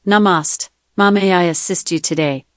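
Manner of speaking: sample Indian-accented offer of help. Shown as a demonstration. Assistant giving the host accent samples, Indian accent. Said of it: "Indian accent".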